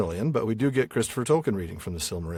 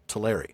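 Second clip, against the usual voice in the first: "Teleri" with the stress on the middle syllable "LER"; American stress on second syllable. Shown as a demonstration. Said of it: "make it also the stressed syllable".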